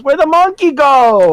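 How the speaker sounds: slow, laughing mock stoner voice; imitating the high guy. Teammate on mic, slow laughing stoner voice. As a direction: drawl it out like a high gamer. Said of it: "the guy turns on his mic and goes".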